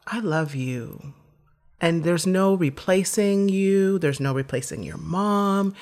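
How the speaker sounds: slow, gentle father's reassurance; a father comforting his daughter softly; soft and tender. Retold or imitated. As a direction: take your time, soothe her. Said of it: "he was so soft".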